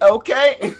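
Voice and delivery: high playful put-on voice; high mock girl voice. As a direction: squeak out a sassy okay. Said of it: "She was like".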